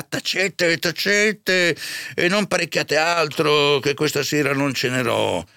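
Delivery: high, flustered curate; agitated hushing. A narrator's reading. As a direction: cut her off, high-pitched and upset. Curato zittisce la serva. (curato agitato che zittisce la serva)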